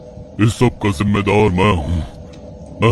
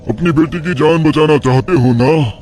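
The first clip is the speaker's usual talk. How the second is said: higher, scornful sorcerer mocking the priest's god; a hint of a cruel old mystic; taunting tantric; 3 semitones higher than usual. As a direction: sneer at his faith and his daughter's fate. Sage tempts the father.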